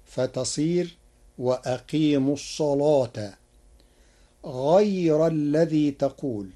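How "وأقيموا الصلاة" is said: الصلاة with a thick, velarized lam; heavy lam. Shown as a demonstration. Teacher showing Warsh reading, الصلاة with a heavy lam. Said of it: "بتغليظ اللام".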